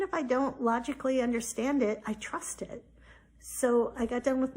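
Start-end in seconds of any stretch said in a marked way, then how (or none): 2.1-2.8 hushed whisper; soft whispered conviction. Real, not acted. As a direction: breathe it out as a secret. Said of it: "whispered affirmation".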